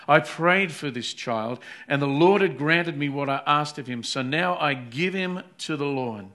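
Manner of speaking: fervent mother pleading with Eli; earnest plea. Acted. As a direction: plead it with passion before the priest. Hannah's vow read aloud.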